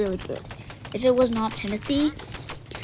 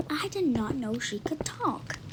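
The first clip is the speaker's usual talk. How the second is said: quick hushed whisper to the others; whispered aside; 3 semitones higher, 6 dB quieter than usual. Acted. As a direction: whisper it so she won't hear. Aside about silent Lottie.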